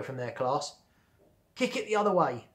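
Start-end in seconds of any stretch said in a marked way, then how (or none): 1.5-2.5 higher-pitched, eager urging; mildly insistent call. A narrator's reading. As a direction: urge a friend on. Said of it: "urged Bradley".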